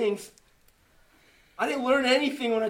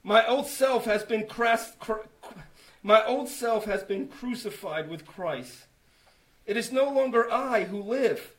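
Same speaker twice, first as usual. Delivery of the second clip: scripture reading; 4 dB louder than usual. Real, not acted.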